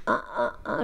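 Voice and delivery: short, unimpressive karate grunts; half-hearted karate cries. Retold or imitated. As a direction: mimic your own lame karate noises. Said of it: "je fais mon truc de karaté".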